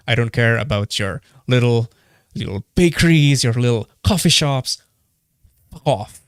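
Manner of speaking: angry, dismissive scorn; real contempt. Real, not acted. Podcaster dismissing small businesses that underpay, contemptuous. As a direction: belittle them, then dismiss them. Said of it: "I'm coming in way too contemptuous".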